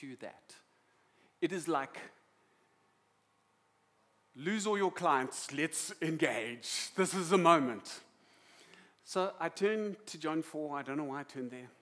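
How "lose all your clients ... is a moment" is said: loud, drawn-out urging with big emphasis; urgent exhortation. Acted. Preacher urging parents to seize the moment, urgent and loud. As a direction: press each phrase out slowly and forcefully.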